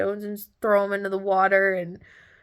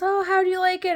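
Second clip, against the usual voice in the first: high-pitched imitated vendor question; friendly taco seller; 13 semitones higher, 4 dB louder than usual. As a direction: play the nice seller checking on a customer.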